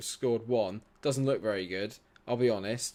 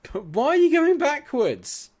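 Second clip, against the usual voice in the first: laughing exasperation; 9 dB louder than usual. Real, not acted. Repeating outburst, laughing.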